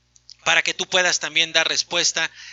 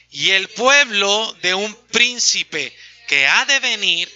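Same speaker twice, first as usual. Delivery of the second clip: slow, steady unison reading of scripture; reading aloud together; slower than usual. Shown as a demonstration. Pastor reads verse aloud with everyone, slow unison. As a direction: read it out together with the congregation, evenly. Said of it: "vamos a leer en voz alta".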